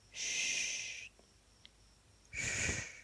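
hushing whisper; shushing. Acted. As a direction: shush them all sharply. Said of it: "exigea le silence".

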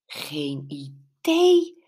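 calling back. Acted. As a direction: call it back over the rotor noise. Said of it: "riep Brenda terug".

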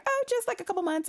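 very high mock Irish accent. Roommate saying how long she was away, mock Irish accent. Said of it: "she had, like, an Irish accent".

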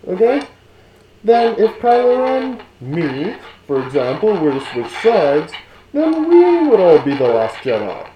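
muffled voice behind a mask; inside a rubber mask. Pretend. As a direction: talk from inside a hot mask. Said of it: "It's getting hot in this mask".

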